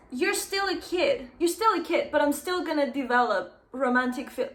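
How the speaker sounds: high, incredulous repeat of a quote; appalled mock quoting. Appalled reader quoting the teacher's line, mock outrage. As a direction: throw the line back in outraged disbelief.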